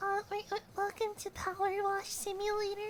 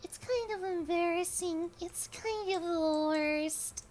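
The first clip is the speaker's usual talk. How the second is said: cute anime streamer. Real, not acted. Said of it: "this is actually just my natural voice".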